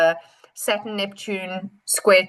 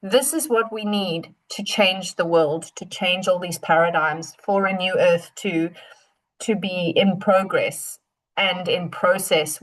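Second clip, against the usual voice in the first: gentle Pluto; 3 semitones lower than usual. Acted. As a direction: hold them gently with the words. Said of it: "Pluto is just gently holding and saying".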